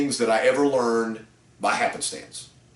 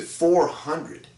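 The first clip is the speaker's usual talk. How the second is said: shocked disbelief; 7 semitones higher than usual. Retold or imitated. Customer shocked at the price.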